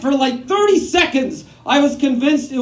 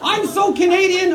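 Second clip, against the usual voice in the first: mock proud shout; 5 semitones higher than usual. Repeat, now shouted.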